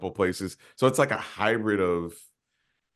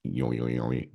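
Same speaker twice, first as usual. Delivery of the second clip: silly sound; 9 semitones lower, 4 dB quieter, slower than usual. Pretend. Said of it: "when it sounds silly".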